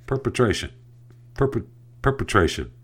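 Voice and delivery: "Perpetration" sounded out as per-puh-TRAY-shun; careful pronunciation. Shown as a demonstration. Host correcting his own stumble on a word, careful pronunciation. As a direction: practise saying "perpetration" carefully, stress on TRAY. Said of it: "Say the word correctly".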